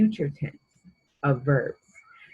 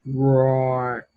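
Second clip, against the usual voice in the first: mock lion roar; 4 semitones lower, 4 dB louder than usual. Shown as a demonstration.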